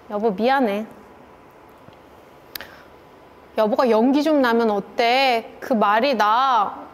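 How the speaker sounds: mild apology. Retold or imitated. Wife going to husband to make up, mildly apologetic. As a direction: own up gently, taking your time.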